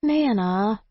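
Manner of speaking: high, whiny protest. Acted. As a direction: object like a sulky grandchild. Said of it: "I protested".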